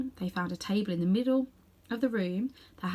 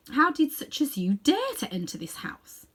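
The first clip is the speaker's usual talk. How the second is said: whispered scorn; 7 semitones higher than usual. Acted.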